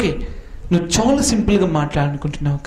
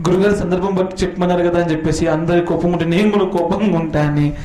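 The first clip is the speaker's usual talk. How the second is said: mock student voice. Mocking a misreading student.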